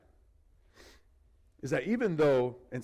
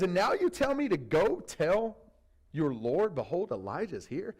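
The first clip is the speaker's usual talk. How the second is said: incredulous repeat; 3 semitones higher than usual. Retold or imitated. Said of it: "Like, are you serious?".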